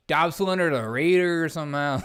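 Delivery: slipping into a New Mexican accent; light, accidental New Mexican accent. Real, not acted. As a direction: let a New Mexican lilt creep in. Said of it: "my New Mexican accent".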